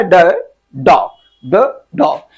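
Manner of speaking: ड slow and clear, then डॉग; phonic sound demo. Shown as a demonstration. Teacher sounds out ड for beginners. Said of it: "ड भी इसको पढ़ा जाता है".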